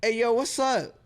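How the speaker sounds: lightly imitated kid acting street; mock swagger. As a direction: imitate a wannabe tough kid. Imitating student's swaggering greeting.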